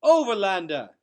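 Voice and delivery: a loud, high joyful call; happy cry. A narrator's reading. Marith greeting Gregor after his return, joyful shout. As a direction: shout his name with delight across the hall. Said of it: "a happy voice cry out".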